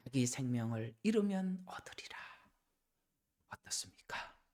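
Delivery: hushed, soft, low whisper.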